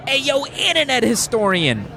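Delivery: high-pitched hail to a celebrity; mock fan shout-out without real volume; calling out. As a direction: call him out across the convention. Acts calling out across VidCon.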